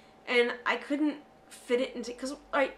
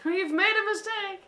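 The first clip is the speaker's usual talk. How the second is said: much higher, louder, slow mock wail; hammed-up band regret; 10 semitones higher, 5 dB louder, slower than usual. Voicing a band after seeing the film, hammed-up louder wail. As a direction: wail it like a comic lament.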